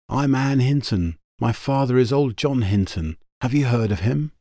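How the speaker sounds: put-on young woman voice. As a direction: voice the girl brightly. Girl character voiced by narrator.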